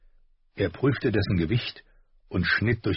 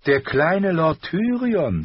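slow, higher, louder mock greeting; mocking Hound; 10 semitones higher, 4 dB louder, slower than usual. A narrator's reading. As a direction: draw it out with fake surprise. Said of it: "sagte er".

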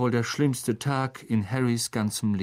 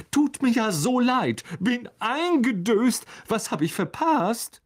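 much higher, breezy cheerful voice; beaming Lockhart; 12 semitones higher, 3 dB louder than usual. A narrator's reading. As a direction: chirp it out, oblivious. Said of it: "er strahlte".

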